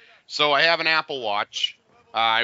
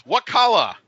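clerk's question; 7 semitones higher, 5 dB louder than usual. Retold or imitated. Italian clerk asks about watch.

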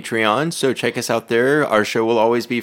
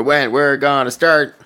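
put-on lilting British accent, slightly raised; 5 semitones higher, 3 dB louder than usual. Making a note of the start, in a British accent. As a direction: try out an English accent. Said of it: "The accent is great".

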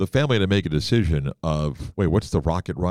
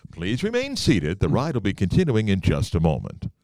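ride announcer. Pretend. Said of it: "That voice that comes on".

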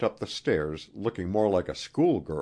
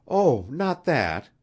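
slow, higher-pitched reassurance; reassuring; 9 semitones higher, 5 dB louder, slower than usual. A narrator's reading. Queen easing Wilson's fear for his friend, reassuring. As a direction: hurry to ease his fear, drawing it out. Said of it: "she assured him".

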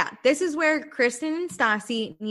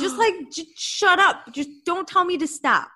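mock snap at being told to calm down; mock snapping back; 7 semitones higher than usual. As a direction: fire back like you're fed up.

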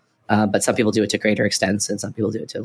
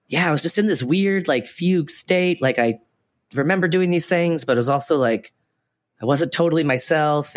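higher-pitched, halting recollection; imagined hypnosis subject; 6 semitones higher than usual. Pretend. Recalling being hypnotized onstage, as an imagined participant, higher-pitched and halting. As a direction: lightly voice someone puzzling over their trance, pitched up.

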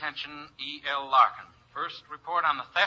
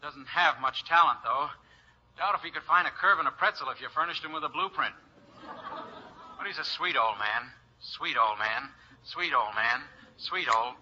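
looping playback, repeating words; stuck record. Acted. Dictaphone playback stuck on a phrase. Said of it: "He gets stuck like that sometimes".

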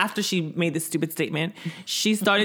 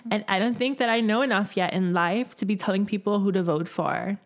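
higher-pitched white girl impression; a pop singer; 3 semitones higher than usual. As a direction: put on a mocking white-girl voice. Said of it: "your pop-singer voice is amazing".

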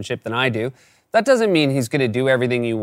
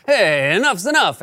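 higher, drawn-out mild yell; flustered yell; 5 semitones higher than usual. Acted. Flustered neighbor to kids on bikes, mild mock yell. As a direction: call out slowly, fed up and flustered. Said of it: "getting flustered and yells".

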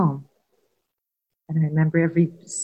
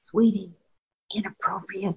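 a gentle, hushed word in his ear, the last word fading softer; soft aside in his ear; 3 semitones higher than usual. Retold or imitated. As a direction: murmur it close to his ear so nobody else hears. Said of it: "I said in his ear, so nobody could hear".

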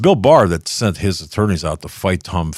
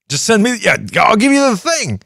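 much higher put-on voice, fumbling for words; Biden-style mumble impression; 5 dB louder than usual. Host mocking Biden's vagueness, high mumbling impression. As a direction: mimic a confused old man asking vaguely. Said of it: "I know somebody who talks like that".

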